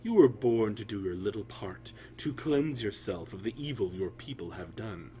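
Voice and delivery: hushed menacing whisper. Acted. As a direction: whisper it like a cruel taunt. Overseer hissing taunts at slave.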